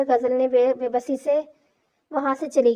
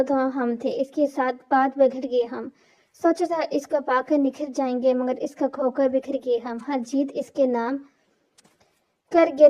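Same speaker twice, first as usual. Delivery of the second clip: poem recitation. A narrator's reading. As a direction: recite it like a sad couplet. Closing sad poem. (धीमी, दर्द भरी शायरी)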